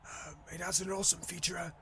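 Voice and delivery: hushed, measured car-show presenter voice. Acted. Gamer mock-presenting a Porsche to viewers, hushed TV presenter. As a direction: present the car very softly, with pauses. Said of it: "It's like a fucking T V presenter voice".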